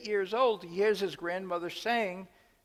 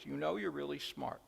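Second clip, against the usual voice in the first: soft, deliberate repeat; 2 semitones lower, 6 dB quieter than usual. Shown as a demonstration. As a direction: let the compliment land gently. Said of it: "Five words".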